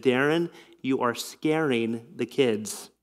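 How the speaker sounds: soft, slow, gently serious words; quiet rebuke. Retold or imitated. Wife quietly warning husband he scares the kids, soft and slow. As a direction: hush him with a quiet warning.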